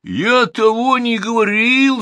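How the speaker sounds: high, loud protest; cry of denial. Acted. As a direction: shout it in panic. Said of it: "закричал он".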